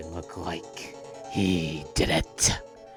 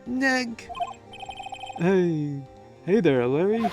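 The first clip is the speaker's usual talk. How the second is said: much higher, louder call; loud excited greeting; 10 semitones higher, 6 dB louder, much slower than usual. Acted. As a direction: burst in shouting hello. Larry bursts in calling.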